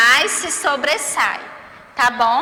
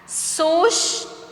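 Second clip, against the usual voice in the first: SUSTO split in two, pitched higher; syllable by syllable; 5 semitones higher than usual. Shown as a demonstration. Teacher reading words for pupils, syllable by syllable. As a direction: say "susto" with a gap between syllables. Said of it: "O que você percebeu ao pronunciá-las".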